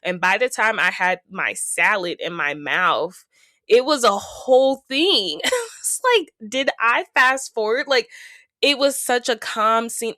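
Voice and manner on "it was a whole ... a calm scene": higher, louder, laughing disbelief; amused shock, half laughing; disbelieving surprise. Real, not acted. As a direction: act stunned like you missed something. Shock at the sudden scene.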